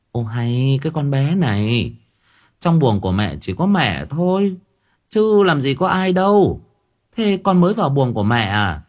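a lightly voiced mother, half soothing, half puzzled; puzzled mother-in-law.

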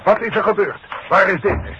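loud, high urgent questions; urgent call. Acted. Boss arriving at the accident, calling loudly. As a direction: demand answers at once.

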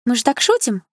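high, plaintive coaxing; whiny appeal for agreement; wheedling. A narrator's reading. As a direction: coax her to back up the excuse. Bully pleads for victim's agreement.

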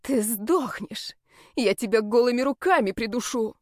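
furious threat. Acted. Enraged woman attacking.

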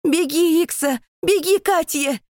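very high, loud desperate yell; roaring command. Acted. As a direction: roar the order into his head. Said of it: "Реву я".

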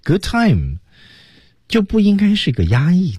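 high, upbeat "good time"; not held back. Shown as a demonstration. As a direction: let "good time" soar in pitch. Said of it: "就不应该是个压抑的". (高高兴兴，语调高扬)

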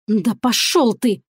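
slow furious hiss. Acted. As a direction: drag the curse out, seething. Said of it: "прошипела я".

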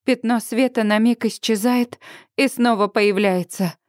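plain reading voice

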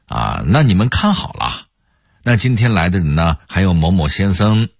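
lightly mocked Hong Kong-Taiwan TV host; Hong Kong-Taiwan accent. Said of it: "也喜欢用港台腔儿".

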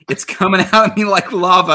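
lightly acted plea; quoted answer. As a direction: read it out like a comic cry for help. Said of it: "Mel says".

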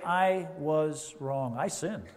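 slow, soft humble confession; sincere apology. Pretend. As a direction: ask forgiveness gently. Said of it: "Satan hates it when we say".

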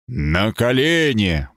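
slow booming inhuman voice; eldritch horror. Acted. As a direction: thunder it like an otherworldly being. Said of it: "прогремел нечеловеческий голос".

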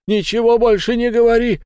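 high, loud desperate shout; frantic cry. A narrator's reading. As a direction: cry out in panic. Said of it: "вскричал Фиц".

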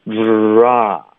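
之 tight and pouted, released straight into open 啊; tight then relaxed. Shown as a demonstration. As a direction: squeeze 之, then drop open into 啊. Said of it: "开头很紧". (先紧 之 再放松 啊)

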